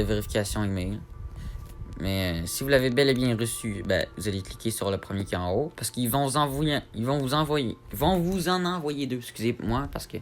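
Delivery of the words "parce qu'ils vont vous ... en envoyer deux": speaking with a sore mouth; struggling to get words out after dental surgery; after wisdom teeth. Real, not acted. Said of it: "je me suis fait arracher deux dents de sagesse".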